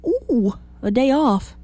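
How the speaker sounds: high, slow delighted ooh; excited. Retold or imitated. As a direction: coo it like a happy holiday-goer. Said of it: "They just think".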